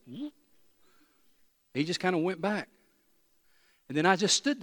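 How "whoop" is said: imitated whoop. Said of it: "I've never seen a snake just go".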